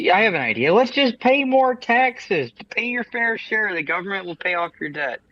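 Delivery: dry mock advice, drawn out; sarcastic. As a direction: sell the irony slowly. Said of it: "I'm being sarcastic".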